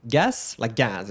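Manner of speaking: "Gas" slowly, like the English word; syllable breakdown. Shown as a demonstration. Teacher breaking down the tricky name, slow "Gas". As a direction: isolate "Gas" as a first syllable.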